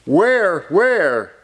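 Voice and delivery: storybook exclamation, swooping down on each word; urgent questioning. Acted. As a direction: ask eagerly for young listeners. Story character asks urgently.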